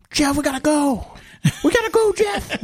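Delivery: squealed high in mock panic; comic falsetto urging; high-pitched voice impression. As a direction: push it way up into a squeaky plea. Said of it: "let's do my best high-pitched voice impression".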